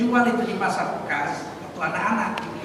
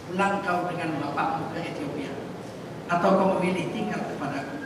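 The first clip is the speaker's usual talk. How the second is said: tender; 4 semitones lower, 5 dB quieter than usual. Retold or imitated. Prophet speaks with love.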